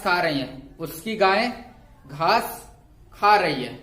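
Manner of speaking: slow, measured dictation with pauses between phrases; classroom dictation. Real, not acted. Teacher dictating homework sentences for students to write, measured dictation. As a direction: dictate each phrase deliberately for note-takers.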